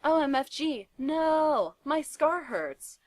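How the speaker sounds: high, loud scream, slowing on scar; screaming in pain from his scar. A narrator's reading. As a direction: cry out in pain, dragging the last words. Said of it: "he started to scream".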